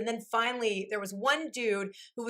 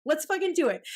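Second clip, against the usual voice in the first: pumped-up, higher and louder; excited; 5 semitones higher, 3 dB louder than usual. Retold or imitated. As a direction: psych yourself up. Retold excited decision.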